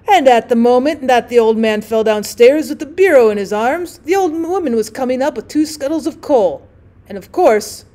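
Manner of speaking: loud, hearty tale-telling; 1 boisterous storyteller. Acted. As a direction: drummer holding court at the bar, loud and boastful. Drummer telling tale loudly.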